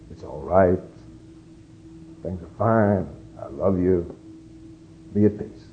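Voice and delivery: soft, low reassuring words; a quiet loving whisper-like assurance; tender reassurance. Retold or imitated. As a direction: comfort someone gently. Tender words a touch says.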